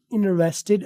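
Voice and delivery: interested in American English with the first t dropped, inresteɖ; interested said slowly with an American dropped t; American pronunciation. Shown as a demonstration. Teacher showing the American interested. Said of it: "American".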